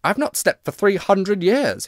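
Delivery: plaintive ghost, mournfully slow; sad. A narrator's reading. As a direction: lament it slowly and sorrowfully. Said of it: "he said sadly".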